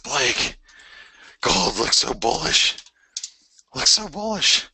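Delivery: high, slow, gushing impression of a hyped-up trader; mock excited viewer. Mimicking eager viewers telling the trader gold looks bullish, high and gushing. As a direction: squeal it like a fan who is sure. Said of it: "everybody would come up to me and they're like".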